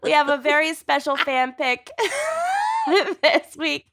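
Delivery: gleeful, laughing through the reveal; giddy, hold back laughter; excited laughing announcement. Real, not acted. Excited fan pick announcement.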